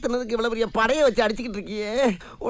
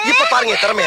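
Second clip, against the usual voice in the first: much higher and louder boast; boastful showing off; 12 semitones higher, 5 dB louder than usual. Acted. Bragging to the mother before scaring her child, loud boast. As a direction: show off your skill grandly.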